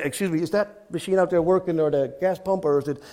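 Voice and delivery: lightly acted sheepish question. Customer asking whether the gas pump works, mildly sheepish. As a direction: ask with a touch of awkward hesitance. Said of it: "So I go in kind of sheepishly".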